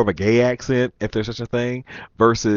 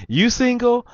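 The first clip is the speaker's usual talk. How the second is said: very high mock female voice; imitated flirting woman; 14 semitones higher, 4 dB louder than usual. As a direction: mimic a woman coming on to a man.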